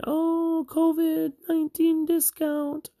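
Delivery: mock ad voice. Reviewer mocking a pandemic line in a cheesy, high promo voice. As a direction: sell it like a tacky promo spot.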